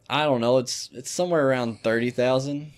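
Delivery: lightly voiced dumb hick; dumb hick character. Prank caller answering debt question, lightly dumb hick. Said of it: "a dumb hick type character".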